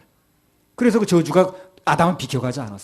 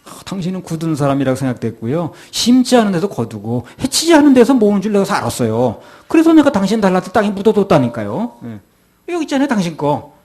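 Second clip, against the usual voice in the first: servant's excuse; 4 semitones higher, 3 dB louder than usual. Acted. Preacher voices the servant's excuse.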